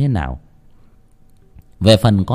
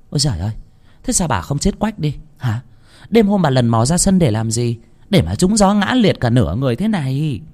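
scolding; 4 semitones higher than usual. Acted. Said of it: "chửi xa xả".

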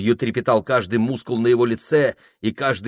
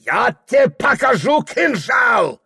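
high shouted menace; angry threat; 11 semitones higher than usual. A narrator's reading. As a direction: yell it over the fallen boy. Ibragim threatens.

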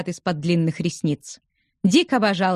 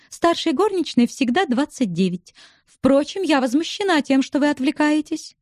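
a higher, playful woman's voice; lightly voiced teasing young widow; 7 semitones higher than usual. A narrator's reading. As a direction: tease him with a light, higher voice. Narrator voices Julia. (слегка повыше, насмешливый женский голос)

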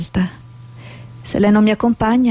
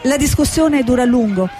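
news report voiceover; 3 semitones higher than usual. Acted. Reporter filing a news piece from Mogadishu, measured. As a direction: read it like a TV correspondent.

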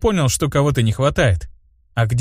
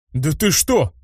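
возглас; 4 semitones higher, slower than usual. A narrator's reading. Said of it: "воскликнул я".

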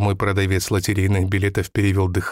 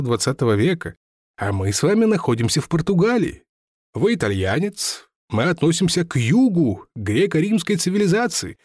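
put-on higher, mildly insistent old seller; lightly voiced lecturing seller; 7 semitones higher than usual. Lottery seller lectures the narrator on the soul, higher and mildly insistent. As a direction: press the point with mild conviction.

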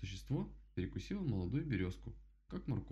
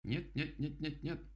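mild cry; 7 semitones higher, slower than usual. Acted. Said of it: "закричал дятел".

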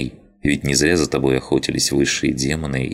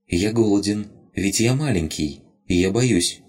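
higher small voice, begging; a tiny creature pleading to stay; pleading rabbit spirit; 6 semitones higher than usual. Acted. Rabbit begs Lina not to give it away, higher pleading.

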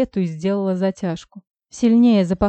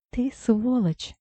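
slow, higher, chattering from the cold; teeth chattering; 5 semitones higher, 4 dB quieter, much slower than usual. A narrator's reading. Heroine freezing outside, snaps at Misha with chattering teeth. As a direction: shiver the words out through clacking teeth. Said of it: "щёлкаю я зубами".

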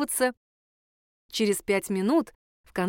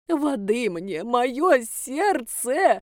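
faked heart attack; 3 semitones higher, much slower than usual.

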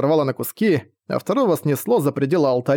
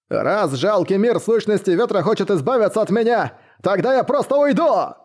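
put-on enraged old man yelling, rising high; furious shout; 6 semitones higher than usual. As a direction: shout it in rage, pitch climbing. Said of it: "В ярости закричал".

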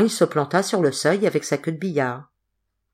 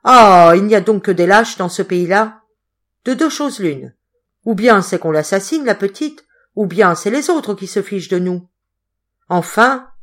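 scornful reproach; 2 semitones higher, 6 dB louder than usual. Acted. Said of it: "il dégoûta Blondel".

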